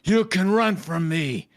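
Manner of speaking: mock villain taunt. Reading villain lines dramatically.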